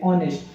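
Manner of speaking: "ऑनेस्ट" begun on the vowel, no H sound; silent H. Shown as a demonstration. Teacher repeats the correct word for learners, "ऑनेस्ट" with silent H. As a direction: say "ऑनेस्ट" without any H at the start. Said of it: "जो एच रहता है वो silent रहता है".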